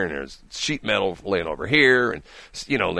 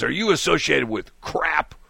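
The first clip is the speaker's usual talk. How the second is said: higher, slow put-on caller voice; mock caller, slow and pitched up; imitating the caller; 6 semitones higher than usual. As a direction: draw out the stranger's suspicious question. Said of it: "He says".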